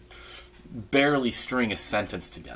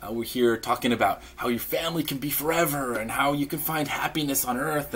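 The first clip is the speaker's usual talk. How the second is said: missionary spiel; 2 semitones higher than usual. Retold or imitated. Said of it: "you'll say a spiel".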